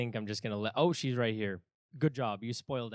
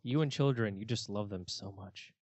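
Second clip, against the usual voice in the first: sarcastic. Real, not acted. Co-host teasing friend about loving children, sarcastic. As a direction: gush over it with dry sarcasm. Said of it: "Why do you say it sarcastically?".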